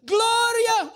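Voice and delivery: high, loud yelling of a name; patient screaming a name. Retold or imitated. Patient screaming a lost love's name. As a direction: call out the name like a madman. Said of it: "May narinig na naman siya".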